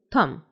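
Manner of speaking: थम with an aspirated th at the start; TH sound. Shown as a demonstration. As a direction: model थम as a single clear word. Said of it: "टी की आवाज़ थ हो जाती".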